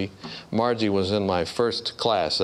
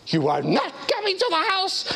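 much higher, strained voice of a frantic wife; panicked wife. Retold or imitated. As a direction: play the wife close to panic.

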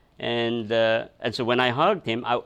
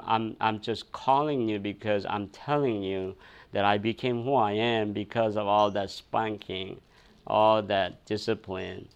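tender thanks; 5 semitones lower, 5 dB quieter than usual. Retold or imitated. Thanking his father on the mountain.

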